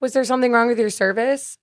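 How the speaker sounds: retold harmless question, lifted voice; not irate. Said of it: "wasn't, like, completely irate".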